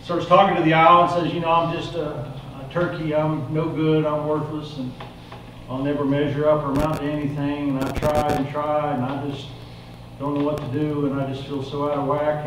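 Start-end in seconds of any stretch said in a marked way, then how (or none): 1.3-12.5 soft, downcast self-pitying voice; quietly acting out a defeated turkey; dejected. Turkey confessing worthlessness to the wise owl, soft and dejected.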